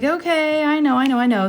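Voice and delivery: high-pitched soothing, easing downward; retold sympathy. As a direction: placate an upset child, starting high. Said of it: "trying to be sympathetic".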